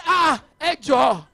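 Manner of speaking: high, loud protesting wail, almost crying; laughing half-sob of protest; mock outraged plea. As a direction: beg in comic disbelief. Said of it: "And I said".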